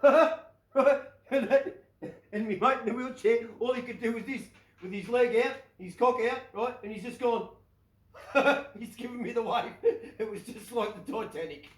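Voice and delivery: laughing. Real, not acted. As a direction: laugh your way through the punchline. Laughing through the punchline.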